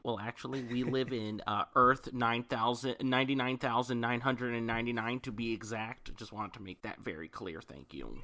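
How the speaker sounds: lightly voiced know-it-all nerd; a hint of a pedantic nerd. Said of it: "That is my nerd voice".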